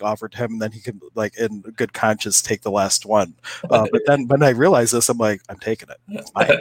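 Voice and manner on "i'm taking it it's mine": triumphant claim. Retold or imitated. Claiming the last mushroom.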